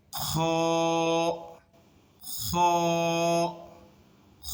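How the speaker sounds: খ with throat friction and unrounded lips; normal-mouth kha. Shown as a demonstration. Teacher modelling the right way, খ with friction and neutral lips. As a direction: rasp খ from the throat, keeping the mouth relaxed. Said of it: "মুখ থাকবে normal.".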